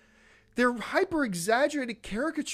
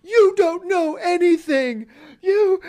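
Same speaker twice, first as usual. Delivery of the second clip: much higher and louder, slow, shrill-sounding ranting fan; hammed-up outraged commenter yelling back; mock angry fan; 9 semitones higher, 9 dB louder, slower than usual. Imitating commenters who attack him for criticism, hammed-up shouting. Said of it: "people who are like".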